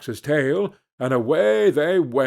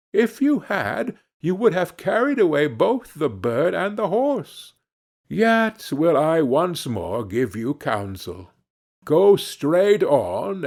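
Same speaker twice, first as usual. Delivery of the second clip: a clever fox lecturing the foolish hero; fox's voice; 2 semitones higher than usual. Acted. Fox scolds and counsels again.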